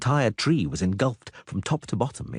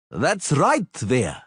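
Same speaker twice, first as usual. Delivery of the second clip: higher, louder call; shouting back; 5 semitones higher, 3 dB louder, much slower than usual. Acted. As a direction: cheer her on. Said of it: "shouted back".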